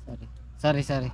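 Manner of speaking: hushed, trying not to be heard; whispering while hiding. Real, not acted. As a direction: keep it down so security won't hear. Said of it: "Baka marinig kami ng ano, security".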